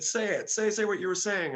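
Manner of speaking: high, loud, insistent friend; egging on, mimicked. Bandmate urging him to redo the voice, high and insistent. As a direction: imitate a friend pushing for a repeat performance.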